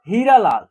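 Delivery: हीरा लाल said briskly with a short ई; short, quick vowels. Shown as a demonstration. Teacher showing a short sound, हीरा लाल said quickly. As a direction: say हीरा लाल without lingering on the first vowel. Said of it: "इसका उच्चारण short तरीके से हो रहा है".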